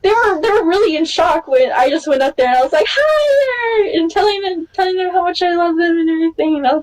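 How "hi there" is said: high, chirpy hi; bubbly fan hello. Retold or imitated. Fan greeting her idols, bright and high. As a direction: greet them all sparkly.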